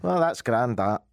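satisfied Scottish sign-off; put-on Scottish accent. Customer wrapping up the ad, put-on Scottish accent. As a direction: round it off as a Scot. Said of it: "Scotland's good".

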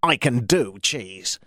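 slow, cheesy radio announcer plug; mildly North American cheesy promo read. Shown as a demonstration. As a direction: sell the station like a hammed-up cheesy ad. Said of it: "I can also do highly cheesy".

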